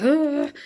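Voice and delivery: a high, loud frustrated ugh; impatient groan at being late; exasperated groan. Retold or imitated. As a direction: let the anxiety burst out in one groan. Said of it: "I get anxious and a bit like".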